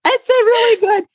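high, breaking into laughter; real laughter taking over the voice; laughing. Real, not acted. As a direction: laugh through the words. Laughing at preaching a sermon.

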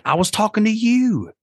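father imitating his daughter's reply; child's voice. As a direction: voice a small daughter, matter-of-fact. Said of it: "She said".

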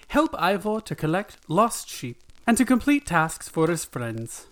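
put-on gentle Welsh narrator, reading a children's tale; Welsh storyteller voice. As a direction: tell it like the old Welsh TV storyteller. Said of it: "and you sound just like him".

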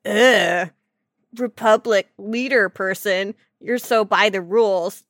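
a hint of a sneering rude guy; dismissive jerk. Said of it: "And he's like".

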